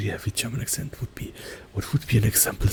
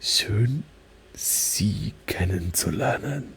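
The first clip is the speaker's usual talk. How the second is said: slow, careful German self-introduction, whispered; German sentence; much slower than usual. Shown as a demonstration. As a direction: introduce yourself slowly in German. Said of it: "in, like, really heavy German accent".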